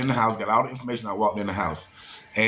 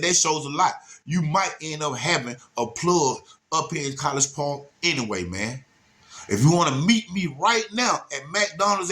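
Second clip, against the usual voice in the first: fast-talking hustler pitched much higher; real talk hustle voice; 4 semitones higher than usual. Retold or imitated. Caller pressing the dealer to pay, much higher hustler voice. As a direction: lean in and sell it hard, much higher. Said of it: "real talk".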